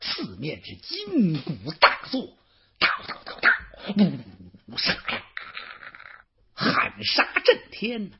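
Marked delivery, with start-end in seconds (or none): 2.8-5.2 imitated war drums and battle cries.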